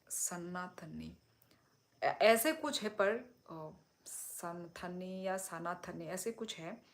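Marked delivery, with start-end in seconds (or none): 0.1-1.2 सनातनी drawn out slowly, syllable by syllable, sa-naa-ta-nee; slow, careful सनातनी with every syllable clear; careful pronunciation. Shown as a demonstration. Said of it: "मैं गलत उच्चारण कर रही होंगी". 4.1-6.1 सनथनी then सनातनी, both said slowly to weigh the two forms; soft, slow comparison of सनथनी and सनातनी; comparing pronunciations. Shown as a demonstration. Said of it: "आप गलत उच्चारण कर रही है".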